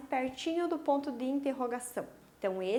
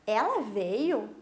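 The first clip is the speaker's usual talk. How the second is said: surprised question; 3 semitones lower, 4 dB louder, slower than usual. Shown as a demonstration. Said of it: "Esse que, perguntando".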